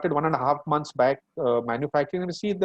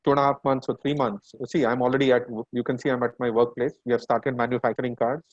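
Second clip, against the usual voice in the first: speaking through a face mask; muffled voice behind a mask. Real, not acted. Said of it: "my voice will be a bit muffled because I'll be speaking ... using my face mask".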